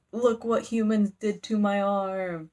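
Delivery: slow, lightly hammed-up monster complaint; bat devil. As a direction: drag it out like a pompous devil. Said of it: "they just talk so funny".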